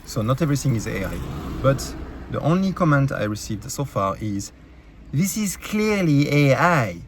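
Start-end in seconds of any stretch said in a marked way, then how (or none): 5.1-7.0 slow, drawn-out mock commenter; mocking quote. YouTuber quoting a dismissive viewer comment, slow and mocking. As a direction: quote it slowly, mocking the critic.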